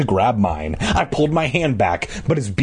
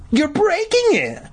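put-on very high alarmed girl's shriek. A narrator's reading. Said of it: "Mindy shrieked".

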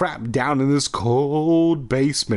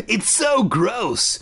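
higher, slow drawn-out disgust; groaning; 8 semitones higher, slower than usual. A narrator's reading. Chuck looks at the masks, slow disgusted groan. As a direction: stretch it out in revulsion. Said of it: "Chuck groaned".

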